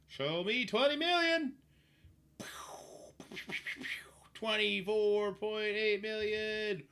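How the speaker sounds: thrilled drawn-out announcement; excited. Real, not acted. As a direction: cheer the number on. Hoping for big damage.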